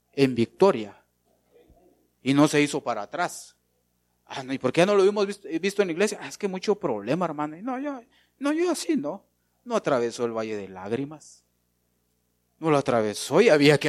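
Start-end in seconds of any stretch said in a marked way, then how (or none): 4.3-7.6 quitter's excuse. Pretend. Voicing a believer who gave up. 7.6-9.2 high, whiny voice of a quitter; mock-whining believer refusing the valley; mock whiny excuse.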